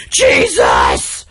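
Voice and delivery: drawn-out mock shout; comic burst of disbelief; exasperated exclamation. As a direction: blurt it as the outburst ending a written rant. Reading out own written exasperated note.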